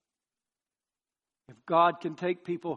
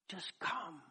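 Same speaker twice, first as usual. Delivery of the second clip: very soft, gentle plea; delighted tender invitation; 11 dB quieter than usual. Acted. Preacher voices God's last invitation, hushed and tender. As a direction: drop to a hushed, loving call. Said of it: "now God can say delightfully".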